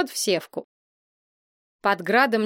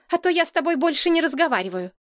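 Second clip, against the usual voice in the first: huffy threat; 7 semitones higher, much faster than usual. A narrator's reading. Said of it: "вздёрнула нос принцесса".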